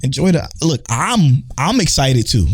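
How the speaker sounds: mildly exasperated telling-off; retold exasperation. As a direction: reenact a fed-up scolding, held in check. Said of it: "I was getting so pissed off".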